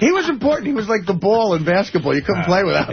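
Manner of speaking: mock praise. Real, not acted. Mocking praise of Howard.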